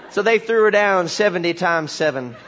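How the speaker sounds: lightly voiced country preacher, deadpan; solemn folksy pronouncements, settling toward the punchline; backwoods preacher storytelling. Country preacher finishing his jumbled story, mock-solemn backwoods voice. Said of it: "he starts to tell this story".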